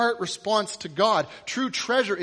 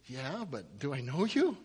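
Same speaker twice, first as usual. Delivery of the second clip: quieter doubting question, rising at the end; puzzled reply; 3 semitones lower, 5 dB quieter than usual. Acted. Quarterback to a stranger in his booth, puzzled. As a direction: ask it bemused and restrained. Bemused Durant answers shouting fan.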